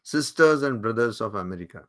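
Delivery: very slow, each word weighed; slow solemn quote. Retold or imitated. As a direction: recite it slowly like a famous opening. Quoting Vivekananda's opening words. (ধীরে, গম্ভীর উদ্ধৃতি)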